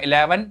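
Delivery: इलेवन said carefully and fully, e-le-ven; proper pronunciation. Shown as a demonstration. Teacher showing students the proper इलेवन. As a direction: pronounce इलेवन clearly, every syllable. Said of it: "proper बोलना है".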